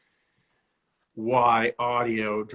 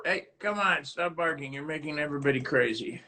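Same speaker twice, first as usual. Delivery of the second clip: higher-pitched plea to a pet; chiding a dog; 4 semitones higher, 5 dB quieter than usual. Real, not acted. Host asking the dog to stop barking, pleading.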